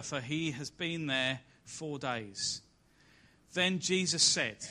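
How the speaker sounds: solemn scripture reading voice. Acted. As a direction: read the passage out to the congregation. Reads the Lazarus passage aloud.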